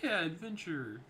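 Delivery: put-on high, loud, excited kid-sister voice; eager younger sister. Younger sister pleading with her older sister, high and eager. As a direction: pitch it way up, bubbling with hope.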